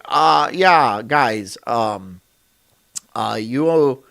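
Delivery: lightly voiced timid official; stuffy suit guy. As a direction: mumble out a lame tax demand. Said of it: "I don't know why he sounds like that".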